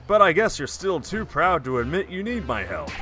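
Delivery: punchy announcer voice; sportscast announcer. Acted. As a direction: read it like a game-show host. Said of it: "like a sportscast announcer".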